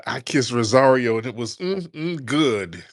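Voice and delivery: lightly camp, savouring mm; a hint of a swooning boyfriend; Cory Booker impression. Mocking Cory Booker praising kissing Rosario, lightly swooning. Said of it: "that's how Cory Booker be sounding".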